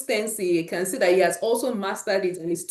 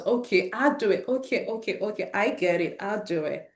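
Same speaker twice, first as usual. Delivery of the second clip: imitating her son. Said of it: "Literally his words now".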